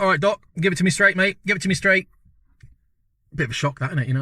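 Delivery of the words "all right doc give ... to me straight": mock brave. Mock brave demand for the news.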